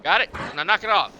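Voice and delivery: a half-serious telling-off of a T-Rex; mock scolding. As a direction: scold the dinosaur like a naughty dog. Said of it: "Yeah, I'm talking to you".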